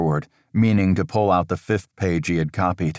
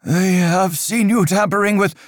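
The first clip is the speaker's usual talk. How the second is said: a higher, louder stern priest's voice, measured and grave; stern old priest; 13 semitones higher, 4 dB louder than usual. Acted. Father Riker warning Aldous of dark times, stern and raised. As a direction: lecture the boy on dark times like an anxious cleric.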